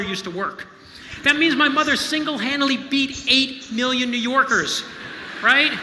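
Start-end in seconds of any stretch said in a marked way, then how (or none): 1.2-5.7 much louder and higher, bursting with pride; beaming, loud delight at mother's feat; thrilled and proud. Real, not acted. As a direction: let the joy about mom spill out loud. Proud, thrilled about his mother.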